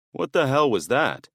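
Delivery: jumping at a noise in the dark; startled burglar. Acted. Burglar hearing a creak on the stairs, startled.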